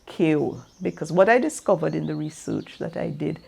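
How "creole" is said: Creole said the local way, short and clipped to kel; own pronunciation. Shown as a demonstration. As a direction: say Creole as she does, almost one syllable. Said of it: "or as I say".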